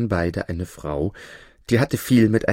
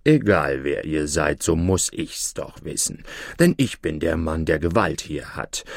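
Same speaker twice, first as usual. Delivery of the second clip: threatening judge; 3 semitones lower than usual. Acted.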